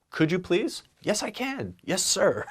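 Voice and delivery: mock boss and eager worker; playful mock dialogue. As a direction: play both sides cheerfully. Mock polite exchange.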